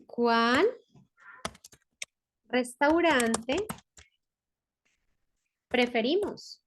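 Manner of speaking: very slow dictation with pauses. Shown as a demonstration. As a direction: drag each word for the class. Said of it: "dictating word by word". (dictado muy lento)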